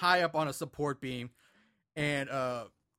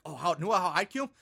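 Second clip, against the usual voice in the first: put-on tough kid bravado. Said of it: "acting like he's the toughest kid".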